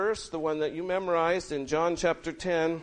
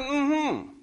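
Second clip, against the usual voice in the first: high-pitched excited report; retelling it with high, lifted excitement; 8 semitones higher than usual. Retold or imitated. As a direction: imitate an excited husband sharing good news. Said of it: "he was all excited".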